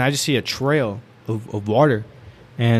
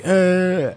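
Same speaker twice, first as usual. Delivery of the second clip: higher, drawn-out groan of protest; drunken grunt; 7 semitones higher than usual. Retold or imitated. Drunk friend told to go home, imitated groan.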